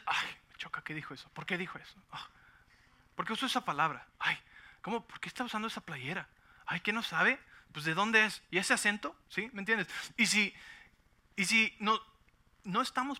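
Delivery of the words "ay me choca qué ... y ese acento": mock complaining. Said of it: "Y si tú dices".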